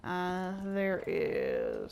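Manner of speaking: flat, even droning tour-guide voice; droning monotone. Real, not acted. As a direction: drone on like a bored robot. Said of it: "I must sound like a droning robot right now".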